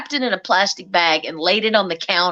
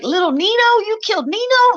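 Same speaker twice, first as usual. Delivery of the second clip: retold shock; 11 semitones higher than usual. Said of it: "I was like".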